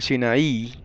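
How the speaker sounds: Sinaí with the accent on the last I; stress on final I. Shown as a demonstration. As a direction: say Sinaí as si-na-Í, Greek-derived form. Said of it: "con acento en la I".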